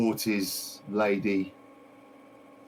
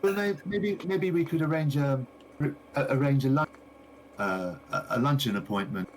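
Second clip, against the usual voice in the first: gushing shopkeeper lady. Acted. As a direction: play the delighted lady greeting her customer. Shopkeeper suggests luncheon.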